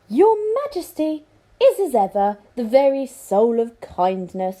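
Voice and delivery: high, oily praise; butter up the king; flattering courtier. Acted. Lord flattering the king, high oily praise.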